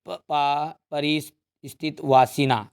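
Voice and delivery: dictation. Real, not acted. Dictating words for students to write.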